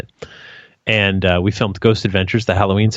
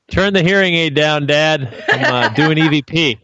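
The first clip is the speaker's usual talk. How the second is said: raised voice, half laughing; calling out to dad; 5 semitones higher than usual. Pretend. Imagined call to deaf dad.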